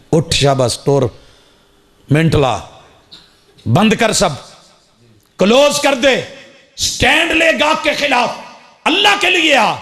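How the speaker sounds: rising, high urgent command; urgent summons. Acted. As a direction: push them to drop everything and come.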